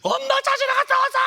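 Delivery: very high, very loud crying shout; a boy screaming at his mother while crying; child's tearful scream. Retold or imitated. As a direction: scream it back at her through tears.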